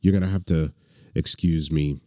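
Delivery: sounds sick with a cold; congested, under-the-weather voice; stuffy nose. Real, not acted. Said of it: "if I sound a little under the weather".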